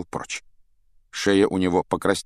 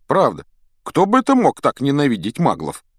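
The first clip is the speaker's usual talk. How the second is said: feigned puzzlement; 7 semitones higher, 5 dB louder than usual. A narrator's reading. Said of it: "сделанным недоумением".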